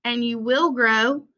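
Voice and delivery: picture-book read-aloud voice; reading to children. Acted. Teacher reading The Important Book to her class, storytime read-aloud. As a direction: read it like storytime for little kids, refrains lifted.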